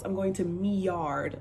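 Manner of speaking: slowed "me yard", with "me" said for my; patois example. Shown as a demonstration. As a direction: spell out "me yard" slowly for learners. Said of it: "If they're going home".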